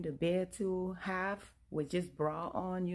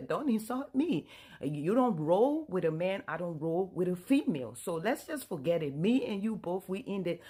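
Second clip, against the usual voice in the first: louder, ending it firmly; firm angry breakup; 6 dB louder than usual. Retold or imitated. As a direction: shut it down for good. Wife ends the marriage.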